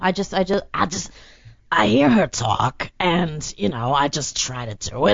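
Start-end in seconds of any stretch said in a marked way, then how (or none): 1.7-5.1 lightly voiced celebrity impression; Whoopi Goldberg. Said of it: "how did you get to Whoopi Goldberg?".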